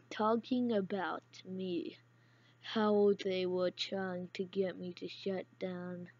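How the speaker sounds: dramatic voiced-over detective monologue; noir detective narration. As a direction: read it like a hard-boiled narrator. Reads detective game narration aloud.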